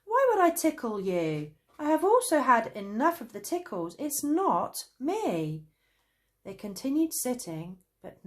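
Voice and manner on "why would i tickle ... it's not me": high, loud angry protest; angry yelling. A narrator's reading. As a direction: shout your innocence. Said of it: "yelled Traveller Fizz".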